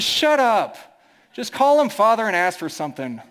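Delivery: lightly voiced brash country woman; brash interruption. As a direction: cut him off like a brash country gal, half laughing. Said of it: "who's very brash".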